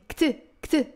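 كت said as a single clipped syllable; كت, one short syllable, no vowel after k; one syllable kat. Shown as a demonstration. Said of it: "One syllable".

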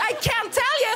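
high, giggly squeal; mock-coy secrecy. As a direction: tease the friends with overplayed delight. Acts out coy secretive shopper.

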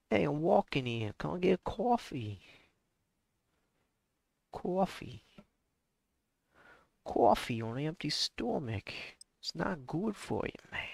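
hammed-up New York accent; terrible New York impression. Streamer doing a terrible New York impression. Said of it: "Terrible impression".

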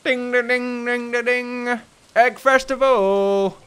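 high sing-song bell calls, then a slow drawn-out cry; town crier. Pretend. Announcing the egg festival to the town as crier. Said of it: "a town crier".

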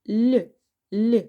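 put-on Л said as a soft, drawn-out l for children; soft sound l. Shown as a demonstration. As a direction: sound out Л, л clearly and softly, twice. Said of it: "Приголосний, м'якенький він у нас".

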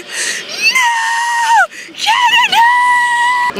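high drawn-out slow wailing cry; mock wail. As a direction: wail in hammed-up despair. Mock despair shouting.

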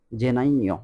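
gennaio, saying জেনাইও as je-NAI-o; Italian gennaio. Shown as a demonstration. Teacher modelling Italian January, careful pronunciation. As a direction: model জেনাইও clearly for the class. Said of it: "Italian ভাষায় বলা হয় জেনাইও".

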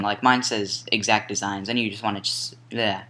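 halting, stumbling over words; stuttering. Real, not acted. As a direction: trip over the words, restart. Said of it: "I'm stuttering like crazy today".

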